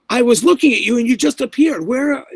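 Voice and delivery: high, loud, rattled; spooked, can't make sense of it; freaked-out disbelief. Retold or imitated. Young officer telling him he vanished, high and spooked.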